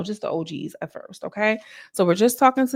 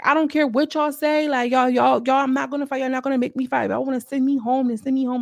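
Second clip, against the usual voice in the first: imitating Biggie; 6 semitones higher than usual. Biggie quoted, dramatic refusal.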